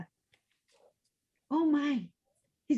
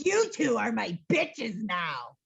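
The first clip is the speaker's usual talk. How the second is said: witch command voice; 2 semitones lower, slower than usual. Acted.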